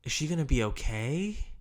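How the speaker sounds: expanded syllables. Shown as a demonstration. Agent asking after a client's wife, syllables extended. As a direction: stretch "Is she gonna be okay" into a worried question. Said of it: "you start expanding those syllables".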